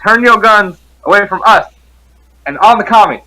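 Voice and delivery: rally the townsfolk like a drill officer; soldier voice. Acted. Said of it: "in my best soldier voice".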